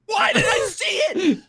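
laughing despairing shout. Retold or imitated. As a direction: yell at yourself in mock agony. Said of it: "I'm like".

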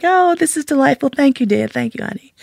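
high, delighted imitation of him; amused lover. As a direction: play a pampered man thanking his servant. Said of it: "he's just laughing".

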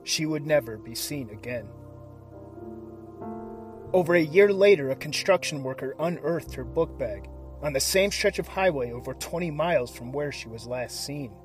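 hushed, dramatic true crime narration; suspenseful crime show narrator. A narrator's reading. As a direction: build suspense like a crime documentary. Dramatic cold open over music.

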